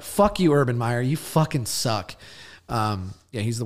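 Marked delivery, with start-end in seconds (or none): 0.0-2.1 mock yell at Urban Meyer. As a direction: heckle him like you're in the stands. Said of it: "Can I just take a sec?".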